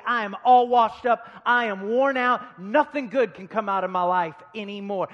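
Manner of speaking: loud, emphatic acted self-putdown; self-condemning. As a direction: cry out a mock declaration of defeat, forcefully. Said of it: "look at yourself and say".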